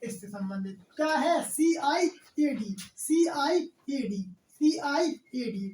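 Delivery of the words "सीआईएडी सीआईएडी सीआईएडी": slow spelled answer. Shown as a demonstration.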